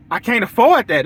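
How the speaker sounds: lightly voiced customer balking at the price; client complaining. Voicing client Mrs Ford's reply.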